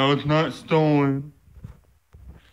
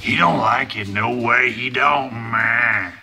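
louder, called out over the noise; 6 dB louder, slower than usual. Real, not acted. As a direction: say it loudly. Dog reacting to skateboard.

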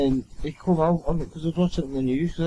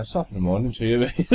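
bad Irish accent; 5 semitones lower than usual. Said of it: "That was the worst Irish accent I've ever".

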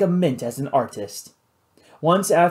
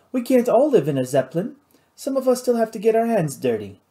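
higher-pitched, testy Cajun pirate; irritated pirate boss; 7 semitones higher, faster than usual. Acted. Louis answering Nathan's joke about the messy office, irritated. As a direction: grumble back in a raised pitch.

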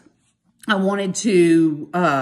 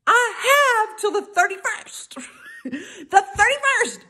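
much higher, slow, laughing singsong taunt; mocking singsong; 13 semitones higher, slower than usual. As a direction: drawl it out teasingly. Taunting text to coworker.

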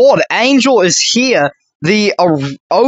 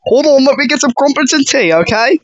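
put-on higher-pitched, playful British accent; 4 semitones higher than usual.

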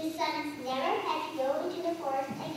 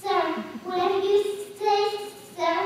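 squeak; 4 semitones higher, 4 dB louder than usual. Acted. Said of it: "he managed to squeak".

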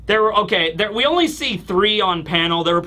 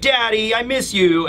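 put-on slightly raised voice, mildly sad child; 4 semitones higher than usual. Daughter missing her absent dad, mildly sad. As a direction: lightly voice a child missing a parent. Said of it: "She's obviously very sad".

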